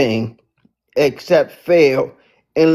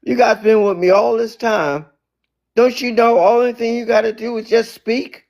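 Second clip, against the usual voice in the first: exasperated; 6 semitones higher than usual. Retold or imitated. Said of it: "And Jesus like".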